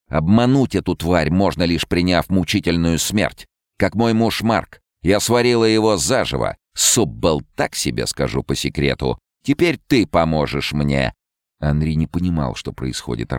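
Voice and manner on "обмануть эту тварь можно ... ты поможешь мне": fortune teller. Acted. Rona explains.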